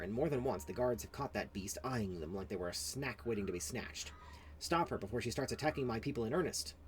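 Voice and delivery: a harried villager losing it; frazzled elf NPC. Acted. Elf villager begging for help, overwhelmed and rising.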